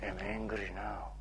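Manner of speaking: calm statement. Shown as a demonstration. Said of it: "Now it's".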